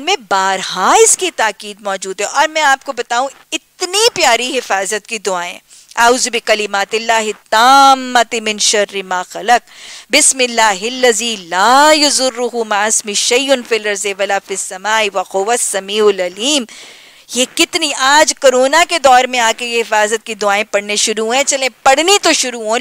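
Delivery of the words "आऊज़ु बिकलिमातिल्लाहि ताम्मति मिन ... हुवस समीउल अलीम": measured, devout recitation of the Arabic words; Arabic dua recitation. Acted. Teacher reciting a protective dua to her class, devout recitation. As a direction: recite it like a prayer, each word set apart.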